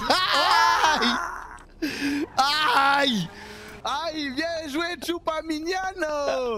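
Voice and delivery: high, drawn-out fake Spanish; mock Spanish accent. Roleplayer cheering on Chupaminiano, mock Spanish accent. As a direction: play it in a comic Spanish-style accent. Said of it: "mettre des sonorités espagnoles à la fin".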